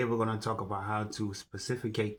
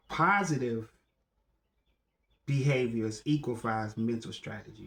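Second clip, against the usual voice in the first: raised-pitch declaiming, settling toward the end; formal recitation; 3 semitones higher than usual. Acted. Speaker restarting a mindset teaching after a slip, measured declaiming. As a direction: recite it with weight on each phrase.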